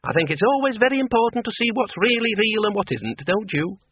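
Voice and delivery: Miss Flitworth. A narrator's reading. Farm woman voiced in story.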